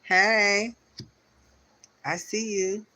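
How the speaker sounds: high, playful call-out; card figure greeting. Acted. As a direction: greet them as a card that spotted them.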